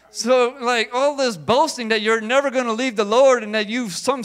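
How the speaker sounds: loud, high rebuke building up; Jesus warns Peter. Retold or imitated. Preacher voicing Jesus rebuking boastful Peter, loud and high. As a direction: call Peter out, firmly and loudly. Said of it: "So Jesus is like".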